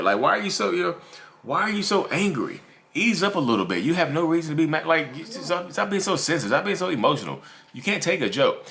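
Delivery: high-pitched, dismissive put-on scolding; mock chiding. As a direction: brush off their hurt as oversensitivity. Acts out dismissing the hurt person.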